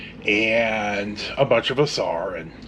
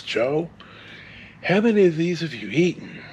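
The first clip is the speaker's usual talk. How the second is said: gently; 4 semitones higher than usual. Retold or imitated. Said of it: "X walks out very gently and says".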